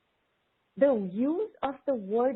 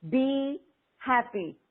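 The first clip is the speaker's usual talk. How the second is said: slow affirmation; 3 semitones higher, slower than usual. Shown as a demonstration. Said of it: "getting the hang of it".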